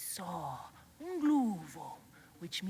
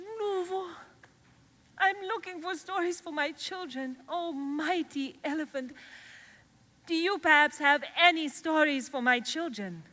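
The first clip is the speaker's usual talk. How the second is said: put-on higher, eager young girl asking the elephant; girl asking politely; 6 semitones higher, 4 dB louder than usual. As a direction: plead sweetly with the mighty elephant. Mazindaba voiced asking elephant.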